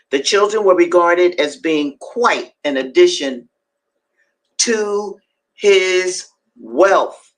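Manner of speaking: deliberate, emphatic narrative reading; dramatic reading aloud. A narrator's reading. Host reading Frederick Douglass to listeners, emphatic reading. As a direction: read it out, weighting key words.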